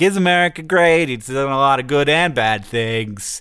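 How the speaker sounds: mock pondering. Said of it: "you're like".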